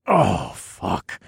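groaned curse, sinking in pitch; groaning. A narrator's reading. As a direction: groan it out in pleasure. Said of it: "I groaned".

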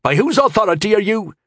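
high, nervous asking; anxious question. A narrator's reading. Frightened watchman asks.

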